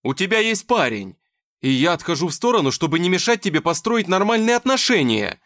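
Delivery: heated quarrel voice; angry shouting. Acted. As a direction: shout your defence. Nikita shouting back.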